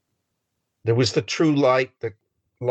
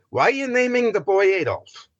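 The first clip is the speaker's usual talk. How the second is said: incredulous question; 10 semitones higher than usual. Retold or imitated. Mock question about a shocking name.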